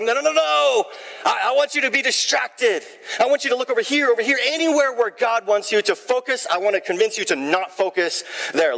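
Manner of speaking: high, sly tempter voice; enemy voice. Retold or imitated. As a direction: play the devil coaxing you away. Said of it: "the enemy's like".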